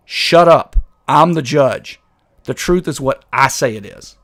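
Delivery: loud, emphatic dismissal; lightly voiced bossy judge. Judge shutting down his critics, mock authoritative. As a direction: overrule them as a self-important judge, mildly mocking.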